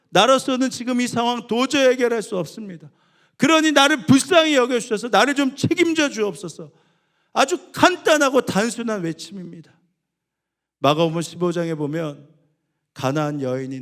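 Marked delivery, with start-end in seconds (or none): 0.1-9.8 loud, high pleading sermon; impassioned pulpit plea; fervent preaching. Acted. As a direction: preach the plea with full force. Preaching at full force.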